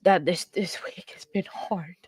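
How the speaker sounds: whispered, fighting back tears; emotional whisper. Real, not acted. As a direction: breathe it out, close to crying. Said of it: "this is getting me emotional".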